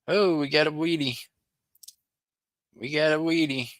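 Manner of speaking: high-pitched, excited discovery call; excited find. Real, not acted. Calls out another coin find.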